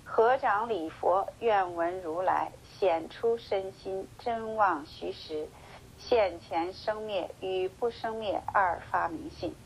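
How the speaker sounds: slow, measured scripture reading; slow sutra recitation. Acted. Teacher reading the sutra aloud to his listeners, slow solemn recitation. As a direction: intone each phrase of the sutra slowly.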